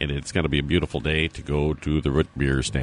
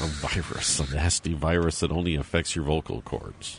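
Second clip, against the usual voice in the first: hoarse, worn-out voice; scratchy, strained hoarse voice. Real, not acted. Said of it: "I just have a really hoarse voice".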